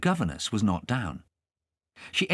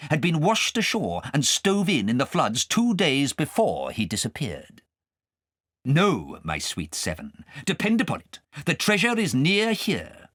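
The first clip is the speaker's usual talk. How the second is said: a hint of a confident old wizard; lightly voiced Abner; 6 semitones higher than usual. Abner telling the witches, lightly voiced wizard. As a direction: reassure the company in a lightly raised voice.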